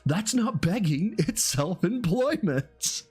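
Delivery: high, slow put-on voice; slow mock voice. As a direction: drag it out in a silly voice. Reading message in voice.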